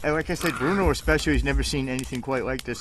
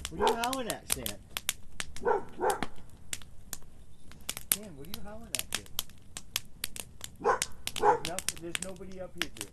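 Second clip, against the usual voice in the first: softer, puzzled question to a howling dog; quiet to the dog; 5 semitones higher, 8 dB quieter, faster than usual. Real, not acted. Owner softly asking Stan why he's howling, softer and puzzled. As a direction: ask him softly what he's howling at.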